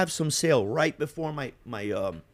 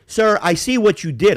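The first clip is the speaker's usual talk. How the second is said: mock bark; 7 semitones higher, 7 dB louder than usual. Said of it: "she barks at me".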